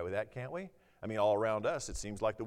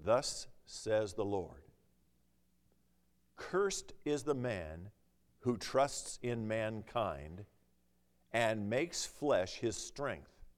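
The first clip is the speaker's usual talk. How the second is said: slow scripture reading; slower than usual. Acted. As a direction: read each phrase slowly and solemnly.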